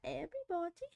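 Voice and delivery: posh British woman. Retold or imitated. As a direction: stretch it out like a prim British lady. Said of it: "Who says that?".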